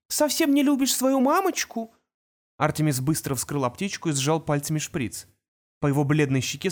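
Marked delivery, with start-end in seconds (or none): 0.1-1.9 cooing. A narrator's reading. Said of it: "проворковала Ангелина".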